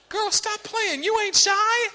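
high-pitched mock scolding parent; exasperated parent. Parent to daughter faking shyness, exasperated. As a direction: call out the child's act.

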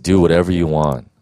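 God speaking to his son, low and tender; God's tender voice. Retold or imitated. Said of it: "And he said".

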